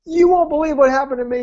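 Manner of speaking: high, amazed announcement; bouncing excitement. Retold or imitated. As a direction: imitate a client bursting with news. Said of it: "he comes bouncing in".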